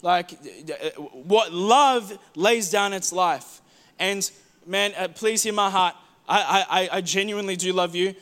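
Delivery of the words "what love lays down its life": slow emphasis. Acted. Slowed repeat of key line.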